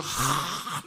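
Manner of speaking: long, breath-heavy acted wail; mock wailing sob. Preacher imitating Peter's bitter weeping, acted wail. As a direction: draw out a groan of grief. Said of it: "막 통곡을 하는 거예요".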